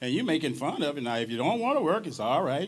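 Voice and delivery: B B King. Retold or imitated. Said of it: "He said".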